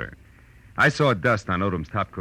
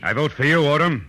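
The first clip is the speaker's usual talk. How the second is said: cool wisecrack; 9 semitones higher, 4 dB louder than usual. Acted. Gunman gets the drop.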